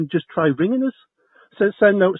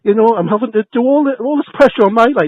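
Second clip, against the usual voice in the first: louder, higher, rising anger; upset tenant getting louder on the phone; upset, raised voice; 4 semitones higher, 4 dB louder than usual. Real, not acted. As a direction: let the anger build as you complain.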